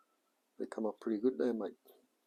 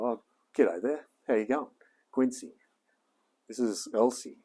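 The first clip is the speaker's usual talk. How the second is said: breezy, offhand "g'day there" to camera; casual glance greeting; 3 semitones higher, 3 dB louder than usual. Shown as a demonstration. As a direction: greet like you just glanced over, a bit louder. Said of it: "It's gotta be more like".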